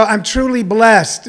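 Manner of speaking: slow mock-pious "I'm truly blessed"; mocking pious quote. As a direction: drawl it like a smug believer. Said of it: "when people go".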